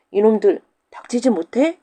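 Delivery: loud angry yell; furious widow. Acted. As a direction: yell at them to shut up. Widow chasing with a stick. (작대기 들고 쫓는 과부의 호통)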